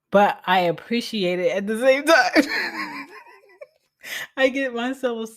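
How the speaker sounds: choked up. Real, not acted. Emotional admission of needing help.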